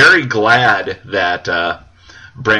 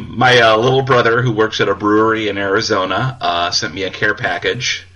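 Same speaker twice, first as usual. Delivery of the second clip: tipsy. Real, not acted. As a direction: talk a little tipsy. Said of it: "I'm a little tipsy right now".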